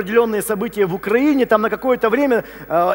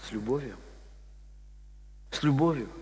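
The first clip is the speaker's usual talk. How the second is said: low and very soft; quiet, tender emphasis; gentle answer; 7 semitones lower, 15 dB quieter than usual. Real, not acted. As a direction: let the words drop into a hush. Gently answers own question, repeats.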